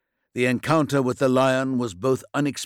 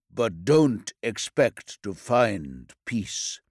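bitter; slower than usual. Acted. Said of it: "He sounded bitter".

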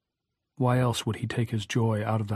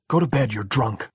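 crying out; 4 dB louder than usual. A narrator's reading. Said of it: "she cried".

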